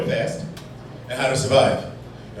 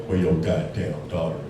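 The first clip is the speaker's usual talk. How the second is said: a lower, growled tough-guy question; low mock tough guy; 9 semitones lower, 6 dB quieter than usual. Man asking about a daughter, low mock menace. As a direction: play the menacing stranger, deeper. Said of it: "He's had a black guy go".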